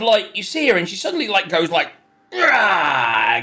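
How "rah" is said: mock rage roar. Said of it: "gets all, like, aggressive".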